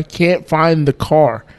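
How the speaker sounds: slow, spaced-out words; drawn-out exasperation. Retold or imitated. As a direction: stretch it out for storytelling effect. Repeated failed search, drawn out for effect.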